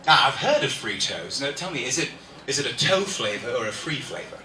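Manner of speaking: curious British chap; British impression, asking politely; British accent. Shown as a demonstration. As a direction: keep up the put-on British accent. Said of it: "a British person's talking to you".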